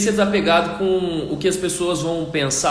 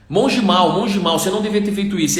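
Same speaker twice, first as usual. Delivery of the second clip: a louder burst of accusation; indignant monk; 3 semitones higher, 3 dB louder than usual. Acted. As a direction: fume and scold again. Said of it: "aquele monge indignado".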